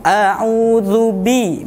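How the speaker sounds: slow a'udzu bi with a slight smile; thin dzal, lips smiling; light, smiling. Shown as a demonstration. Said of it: "sedikit tersenyum".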